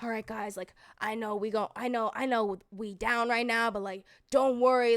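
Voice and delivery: imagined calm huddle. Retold or imitated. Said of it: "I thought it would be like".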